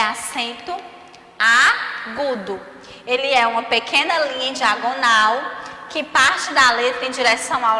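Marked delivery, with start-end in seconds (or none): 0.0-2.6 acento agudo, slowly; slow spelled out. Shown as a demonstration. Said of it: "O nome dele, ó". (devagar, bem pausado)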